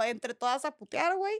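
normal talking voice

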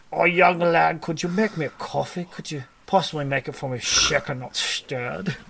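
put-on Scottish accent, playfully suave. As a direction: order coffee as a mock Scottish gent. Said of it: "with a Scottish accent".

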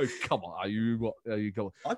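low, incredulous chuntering protest; Boris. Retold or imitated. Politician looking round for an official, muttered incredulity. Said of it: "this kind of conspiratorial look around".

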